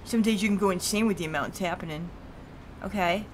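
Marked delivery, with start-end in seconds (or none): 0.0-2.1 lightly voiced heavyset man, a touch lower; slightly low, heavy Fat Mike voice; a hint of a heavy, older cop; fat guy voice. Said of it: "I'm gonna give him a fat voice".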